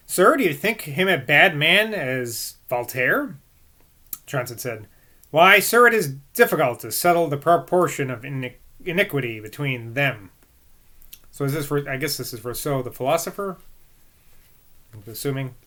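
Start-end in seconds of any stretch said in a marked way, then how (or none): 0.1-10.3 measured, emphatic book reading; formal read-aloud. A narrator's reading. Reader voicing Johnson's verdict on Rousseau, formal read-aloud. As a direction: read it out formally with firm stresses.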